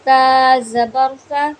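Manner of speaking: slow, loud syllable spelling; spelling drill. Shown as a demonstration. Teacher spelling out a syllable for beginners, slow and loud. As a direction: spell it out clearly, no whistle on सा. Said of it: "सा में सीटी नहीं आएगी".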